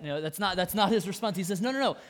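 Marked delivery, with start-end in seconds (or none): 1.6-2.0 firm, louder no's; bold refusal. Retold or imitated. Jesus refusing the devil, bold and firm. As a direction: shut the devil down flat. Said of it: "He responds boldly".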